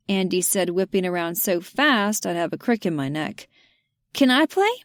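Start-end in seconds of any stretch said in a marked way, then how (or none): 4.1-4.7 put-on eager child. Andy eager to play.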